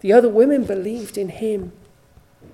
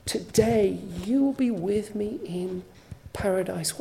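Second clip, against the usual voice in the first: softer, hushed voice of Jesus; tender promise; 2 semitones lower, 7 dB quieter than usual. Retold or imitated. Jesus to the dying thief, softer and tender. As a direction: promise it gently and quietly.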